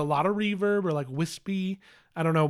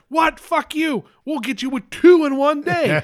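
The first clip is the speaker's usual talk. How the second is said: high, loud hammed-up outrage; mock defiant shout; 10 semitones higher, 6 dB louder than usual. Studio bosses one-upping a rival trailer, mock outraged. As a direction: fire back like a combative studio boss.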